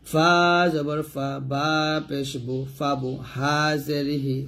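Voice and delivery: measured recitation, long-held letter names; slow, even Qaida chant for learners to follow; Quran spelling drill. Shown as a demonstration. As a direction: spell it out rhythmically, syllable by syllable.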